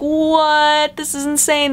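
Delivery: high, stunned disbelief; incredulous. Retold or imitated. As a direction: react like you can't believe it. Incredulous at missed connections.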